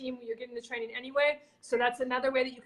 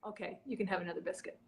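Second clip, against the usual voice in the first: meek owner giving in; 6 semitones lower, 8 dB quieter than usual. Retold or imitated. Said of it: "the owner looks at him and says".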